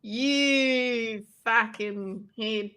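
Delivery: very drawn-out Australian insult; Australian accent. Shown as a demonstration. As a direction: stretch it out slowly in an Australian accent. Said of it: "an Australian accent".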